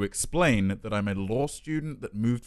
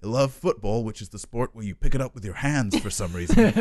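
put-on American accent. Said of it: "It started off just like".

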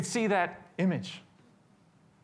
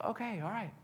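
retold giving in; 5 semitones higher, 8 dB quieter than usual. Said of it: "He's like".

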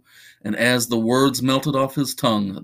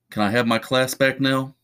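flat, irritated teacher voice; deadpan, insistent request; monotone voice; 3 semitones higher than usual. Acted. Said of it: "so irritating and persistent".

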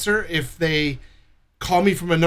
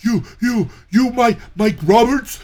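much higher, slow stammer, laughing; hammed-up caller asking for Mike; mocking confused caller; 9 semitones higher, 5 dB louder than usual. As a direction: play the baffled scammer. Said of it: "And he's like".

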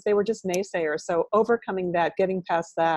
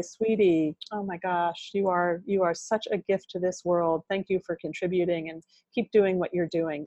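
tender self-talk; 4 dB quieter than usual. Shown as a demonstration. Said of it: "writing with your non-dominant hand to say".

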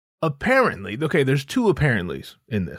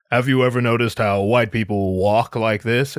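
mock Paul Mooney; 4 semitones lower than usual. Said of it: "Paul Mooney's just like".

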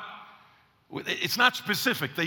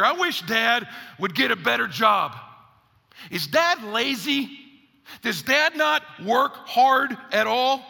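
put-on griping kid; 3 semitones higher, slower than usual. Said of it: "here's what you hear".

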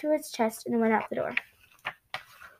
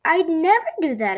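higher, louder protest; exclaiming; 4 semitones higher, 5 dB louder than usual. A narrator's reading. Franklin protests to Mister Owl, exclaiming. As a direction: exclaim it emphatically, pitched up. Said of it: "exclaimed Franklin".

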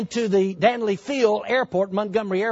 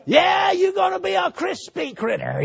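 devil's taunt; 9 semitones higher than usual. Retold or imitated. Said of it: "the devil said".

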